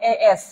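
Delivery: এ এস split into vowel "e" plus "es"; demonstrated pronunciation. Shown as a demonstration. Teacher showing S begins with a vowel, split এ এস. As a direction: break the letter S into এ এস. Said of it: "এস এর উচ্চারণটা এরকম".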